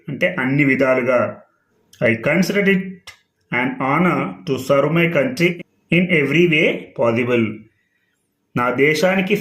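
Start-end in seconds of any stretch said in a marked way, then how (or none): 2.1-7.4 slow, word-by-word English reading; deliberate classroom read-aloud; slow dictation reading. Shown as a demonstration. Teacher rereads the statement to students, slow and careful.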